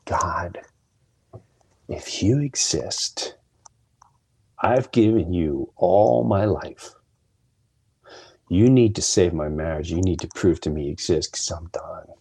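beaten-down prayer retold, fading to a near whisper; retold sobbing plea. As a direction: imitate a desperate plea to God, slow with breathy drops. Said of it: "I mean, I'm sobbing".

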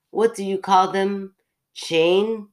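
put-on shopkeeper searching for a word, Russian accent; questioning in a light Russian accent. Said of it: "your Russian accent".

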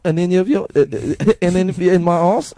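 high, loud French caricature; energetic camp French. Acted. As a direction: put on a camp, excitable French accent. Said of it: "like, really gay and, like, uh, energetic".

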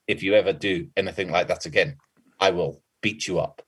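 quiet, level menace; calm threat. Retold or imitated. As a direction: say it calmly, no bluster. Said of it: "he just said it very calmly".

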